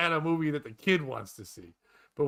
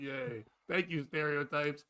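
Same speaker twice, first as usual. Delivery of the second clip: deadpan cheer; 2 semitones lower, 6 dB quieter, slower than usual. Retold or imitated. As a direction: cheer under your breath, ironically. Ironic cheer after story.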